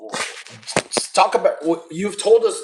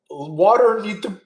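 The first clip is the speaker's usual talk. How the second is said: interrupted by hiccups; hiccuping; 5 semitones higher, slower than usual. Real, not acted. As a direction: hiccup through the words. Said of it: "excuse me, I'm hiccuping".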